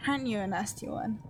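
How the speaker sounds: restrained androgynous taunt; raspy mocking voice. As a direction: lightly voice a raspy, hateful mocker. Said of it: "I have to do a raspy, androgynous, mocking voice".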